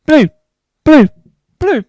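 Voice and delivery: "blue" as short separate bursts, each falling; repeated till meaningless. Shown as a demonstration. Showing that it sounds like boo, "blue" in short falling bursts. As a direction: punch out "blue" alone, evenly spaced. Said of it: "It sounds like it's saying boo".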